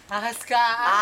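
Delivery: loud mock chant; teasing shout. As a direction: shout it like a playground taunt. Group chanting snake at her.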